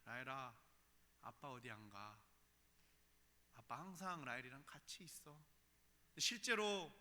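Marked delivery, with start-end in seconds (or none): 0.0-5.4 put-on soft, gentle promise to a child; tender reassurance. Father softly promising his little daughter he stays, tender. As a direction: hush her fears softly. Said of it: "그 아이에게 그렇게 이야기합니다".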